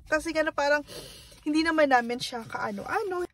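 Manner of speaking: tearful, voice still choked; after crying. Real, not acted. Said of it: "sorry, naiyak ako".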